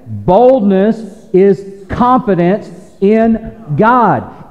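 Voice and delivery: slow repeated statement. Shown as a demonstration. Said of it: "Say it again".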